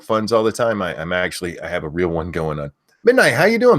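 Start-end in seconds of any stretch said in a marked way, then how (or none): 3.0-3.8 loud high name shout; screaming names. Real, not acted. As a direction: belt the viewer's name out. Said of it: "I have to stop screaming that".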